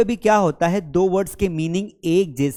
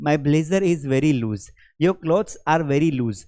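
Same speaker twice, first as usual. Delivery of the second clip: slow example; 3 semitones lower, much slower than usual. Shown as a demonstration. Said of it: "जैसे मैंने कहा".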